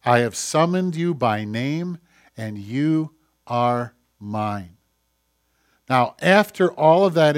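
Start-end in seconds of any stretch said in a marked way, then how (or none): 0.0-4.8 slow, tender verse read with weight; unhurried, tender "you are mine"; tender scripture reading. Acted. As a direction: linger on each word like a promise. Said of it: "this little phrase".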